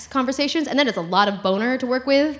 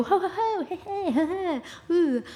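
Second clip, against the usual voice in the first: party cheering; 6 semitones higher, 6 dB quieter than usual. Retold or imitated. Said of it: "and they go".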